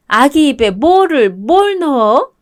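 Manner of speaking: slow, stunned question; drawn-out shocked asking; shocked disbelief. Acted. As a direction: she can't believe what she just heard. Mother-in-law shocked by the news.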